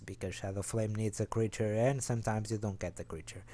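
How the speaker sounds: running out of air; breathless, air running out; out of breath. Real, not acted. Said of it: "I ran out of breath there".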